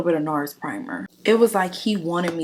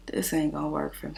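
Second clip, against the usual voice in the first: whisper; 6 dB quieter than usual. Retold or imitated. Whispered retort in retold chat.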